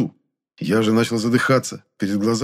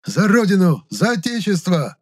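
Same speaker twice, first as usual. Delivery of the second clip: thin battle cry; 9 semitones higher than usual. A narrator's reading. Monya charges the sorcerer, crying out in a thin voice. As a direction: yell it bravely in a reedy voice. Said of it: "тоненьким голосом выкрикнул вдруг Моня".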